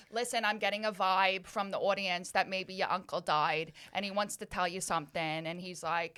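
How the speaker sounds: low attempted Long Island accent; Teresa Caputo. TV medium passing on a dead uncle's message, Long Island accent. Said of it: "I'm gonna do the accent".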